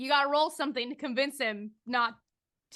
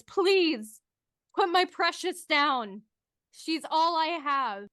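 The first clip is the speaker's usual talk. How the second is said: pleading voice; 3 semitones higher, slower than usual. Acted. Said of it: "a voice from across the room that says".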